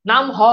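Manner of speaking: নাম হ with a separate "ho" after "naam"; visarga sounded out. Shown as a demonstration. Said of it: "এটার উচ্চারণ হচ্ছে নাম হ".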